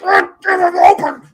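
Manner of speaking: high, loud, slow mock plea; mock yell. Receiver begging for the ball, imitated as a high mock yell. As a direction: whine it like a frustrated receiver.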